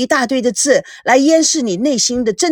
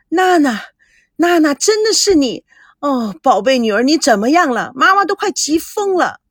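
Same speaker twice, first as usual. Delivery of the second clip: high, eager relief of a worried mother; bursting with relief to hear her daughter; excited mother; 5 semitones higher than usual. Acted. Mother on the phone finally reaching her daughter, high and overjoyed. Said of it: "赵熙在电话里激动的".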